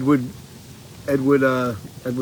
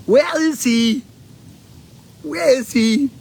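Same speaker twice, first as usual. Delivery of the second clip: much higher, louder frantic searching; panicked mother; 10 semitones higher, 3 dB louder, slower than usual. Retold or imitated. Quoting the mother searching for her son, mock panic. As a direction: call it out like a mom who lost her kid. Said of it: "she looks over at him and she goes".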